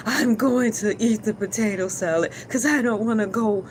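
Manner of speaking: lightly voiced Neo, a touch deadpan; a hint of Neo, calm and matter-of-fact; Neo's voice. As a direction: Neo choosing the potato salad, lightly voiced. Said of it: "in my Neo's voice".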